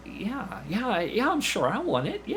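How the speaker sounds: high, quick, eager yeses, pitched well up. Retold or imitated. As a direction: jump at the offer like a kid. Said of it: "And, and, and I'm like".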